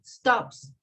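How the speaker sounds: "Stops" said with a crisp s ending; teacher's model of "Stops"; model word. Shown as a demonstration. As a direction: end "Stops" on a sharp s. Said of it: "So I say".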